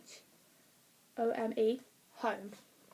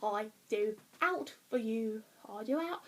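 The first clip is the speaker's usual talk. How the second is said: put-on Lancashire accent; 4 dB quieter than usual. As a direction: sing it with a mock Lancashire accent. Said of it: "If it was done up Lancashire".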